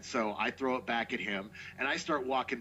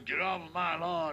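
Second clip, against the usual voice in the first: lightly voiced old grouch, pitched up a little; crotchety old guy; 3 semitones higher than usual. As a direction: do a mild grumpy-neighbor scolding. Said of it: "some crotchety old guy walks out and goes".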